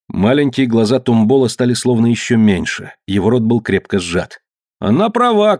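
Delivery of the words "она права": very high cry from the crowd; shout of support. A narrator's reading. Someone in the group backs Mary Lee, high cry. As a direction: call out agreement in a high voice. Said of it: "крикнул кто-то".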